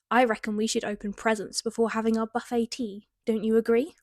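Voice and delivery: hammed-up British mum. Shown as a demonstration. Mum proposes presents before tea, very British. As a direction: lay the Britishness on thick. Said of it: "bloomin' British did I sound".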